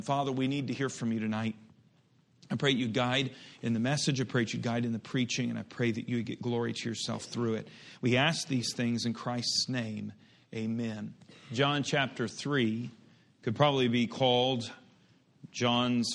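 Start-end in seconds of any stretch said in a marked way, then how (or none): 0.0-11.1 prayer. Real, not acted. Opening prayer before message.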